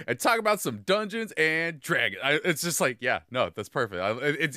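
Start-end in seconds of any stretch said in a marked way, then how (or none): 0.1-2.2 imitating the intro with lively inflection; imitating podcast intro. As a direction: copy the host's singsong "Dungeons and Dragons". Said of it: "that inflection on it that mine doesn't have".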